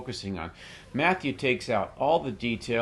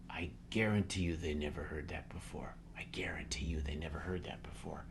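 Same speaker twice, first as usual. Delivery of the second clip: hushed whisper, much softer; 7 semitones lower, 13 dB quieter than usual. Real, not acted. Telling the cohost the skinheads never heard that, whispered. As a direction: lean in and whisper it.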